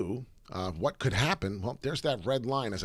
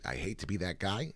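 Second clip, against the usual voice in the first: ordinary talk, nothing marked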